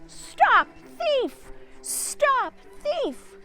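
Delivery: high, loud yelling after a thief; angry shout. Acted. Mister McGregor chasing Peter through the garden, angry yelling. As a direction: bellow it while chasing with a rake. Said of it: "calling out".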